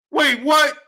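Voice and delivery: shouted, rising to a question on what; startled wait what. Real, not acted. Host reacting to a boxing clip, shocked shout. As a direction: blurt it out in disbelief.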